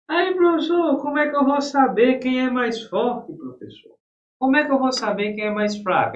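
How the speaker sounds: a confused student begging for the trick. Acted. Teacher voices a puzzled student. (voz de aluno confuso, mais aguda e alta)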